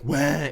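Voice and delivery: one brief pretend bawl; imitated kid cry. Showing what the kid's cry wasn't, short mock wail. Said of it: "Nor was it a kid going like".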